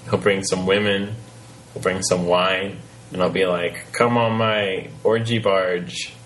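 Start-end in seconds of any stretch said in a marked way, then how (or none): 3.9-6.1 slow, lightly slurred party god; lightly voiced drunk god coaxing; drunken Greek god. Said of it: "your drunken Greek god voice".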